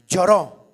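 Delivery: "lloró" dropped low and said loudly as a slow, falling single word; emphatic lloró. Acted. Preacher to congregation, stressing that Jesus wept: a low, loud "lloró". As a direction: land "lloró" heavy and low, letting it fall.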